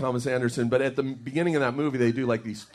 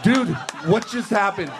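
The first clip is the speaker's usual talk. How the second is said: higher, shaken mock disbelief; stunned; 5 semitones higher than usual. Friend coming out of the kitchen, shaken and higher. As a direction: play the freaked-out friend, half laughing.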